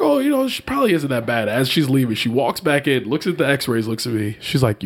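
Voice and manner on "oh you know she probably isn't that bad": breezy, very high nurse voice; airy and high, like a nonchalant nurse. Retold or imitated. Retelling what the doctor's assistant said.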